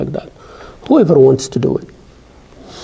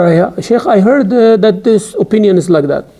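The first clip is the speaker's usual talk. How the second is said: mock unsure student; 5 semitones higher than usual. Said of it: "you don't just say".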